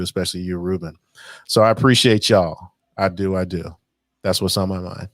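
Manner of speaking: sincere. Real, not acted. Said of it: "it did sound like a retirement party".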